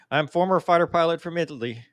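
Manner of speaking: hammed-up Italian accent, lightly done; playing an Italian fighter pilot with a light Italian accent; mock Italian accent. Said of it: "I can't do it without the accent".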